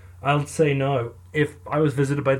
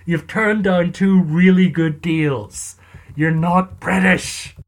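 slow, louder mock-exasperated scolding; exasperated lawyer; 2 semitones higher, 5 dB louder, slower than usual. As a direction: spell it out slowly to a hopeless client, louder.

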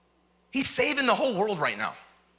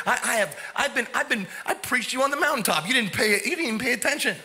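mock flipped-out Jesus. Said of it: "if Jesus would have flipped out".

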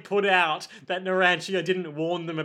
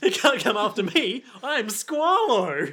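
hammed-up Squalo; 3 semitones higher than usual. Squalo boasts he can't be caught. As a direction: drag out the name proudly.

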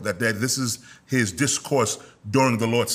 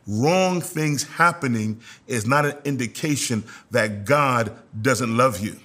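slower, measured emphasis from "Wrong" through "love you"; deliberate repeat. Real, not acted. Preacher repeats a key point to the congregation, slow and deliberate. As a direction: spell it out slowly, phrase by phrase. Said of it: "I'm gonna say that again".

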